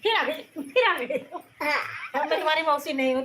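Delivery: amused telling-off, laughing as you speak; laughing scolding. Real, not acted. Laughing scolding of naughty child.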